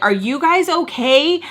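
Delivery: stall bystander. Retold or imitated. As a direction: slowly call out a concerned question. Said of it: "on the stalls are like".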